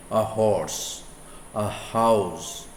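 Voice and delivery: "horse" and "house" each begun with a sounded H; hard H. Shown as a demonstration. Teacher giving students examples, "horse" and "house" with hard H. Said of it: "with a hard H".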